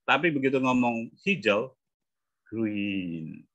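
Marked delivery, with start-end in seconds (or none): 2.5-3.5 GREEN with a long stretched ee; long vowel. Shown as a demonstration. Coach showing the colour word moves the jaw, long vowel. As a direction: work the jaw into a drawn-out GREEN. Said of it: "Rahang langsung gerak nih".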